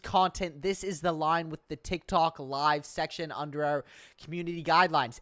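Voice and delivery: robotic monotone reading. Real, not acted. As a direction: read it out like a robot. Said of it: "I low-key just read that like a robot".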